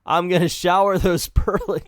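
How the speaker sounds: reading "I'm gonna shower those pearly" but breaking into laughter; can't get through "pearly" for laughing. Real, not acted. First take broken by laughter.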